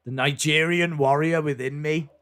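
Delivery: a light put-on Nigerian warrior voice; booming it out like a heel's proud boast; mock Nigerian accent. Streamer imitating Apollo's new heel accent, hammed-up. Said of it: "Apollo's new accent for his heel character".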